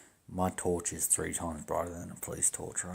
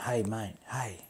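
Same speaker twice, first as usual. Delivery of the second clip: higher-pitched mock police call-out; imitating a yell; 4 semitones higher, slower than usual. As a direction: call out like an officer hailing someone. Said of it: "they're yelling at".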